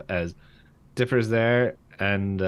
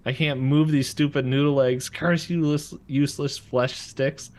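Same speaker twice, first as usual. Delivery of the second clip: acted struggle, pitch pushed up; imitated wheezing; 4 semitones higher than usual. Bill collapsing in Dipper's body, mock wheezing. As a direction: play a failing body fighting to get words out. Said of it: "As he starts wheezing".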